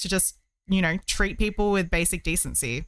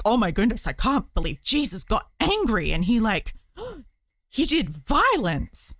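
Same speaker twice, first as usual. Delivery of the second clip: mock pearl-clutching. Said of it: "people are like".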